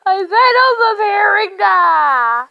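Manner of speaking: slow, loud telling-off; scolding. Real, not acted. Telling the dog off for kicking grass, loud and slow. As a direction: draw it out, scolding.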